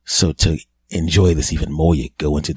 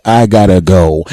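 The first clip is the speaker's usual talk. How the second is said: hasty exit; 8 dB louder than usual. Retold or imitated. Guy fleeing after one trick.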